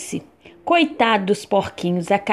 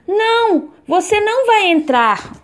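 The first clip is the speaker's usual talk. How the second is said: much higher little pig voice; 10 semitones higher than usual. Acted. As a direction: pipe up high like a piglet. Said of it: "o porquinho respondeu".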